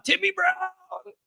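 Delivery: high, slow, stretched-out announcer call of the name; Tony Roberts announcer call. Retold or imitated. Host honoring a donor with an announcer call. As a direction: draw the name out like a classic play-by-play man. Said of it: "with that, oh man, that Tony Roberts voice".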